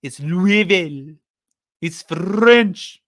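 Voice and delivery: imitating people who insist Louisville is French; mock a fussy corrector saying "Loo-ee-vil"; mock pedantic objectors. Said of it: "There's gonna be people going".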